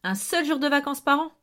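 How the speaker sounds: gleeful rising repetition; delighted echo. A narrator's reading. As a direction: savour "un seul jour de vacances par an", rising. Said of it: "les élèves n'ont droit qu'à un seul jour".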